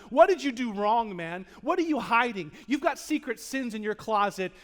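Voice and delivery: loud, pressing accusation; accusing friends. Retold or imitated. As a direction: hammer him with the question like a blaming friend.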